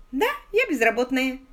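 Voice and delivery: бодро, с лёгкой улыбкой в голосе; весело, будто ей всё нипочём. Acted. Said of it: "весело сказала Сью". (весело сказала Сью)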